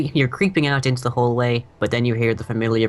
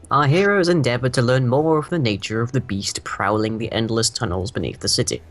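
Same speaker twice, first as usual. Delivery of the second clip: game master recap. Acted. GM opening the session, grand narrator voice. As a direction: set the scene like an epic saga.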